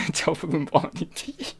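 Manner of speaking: lightly voiced Irish leprechaun, rising at the end. Shown as a demonstration. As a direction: try the Irish leprechaun greeting. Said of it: "add the leprechaun".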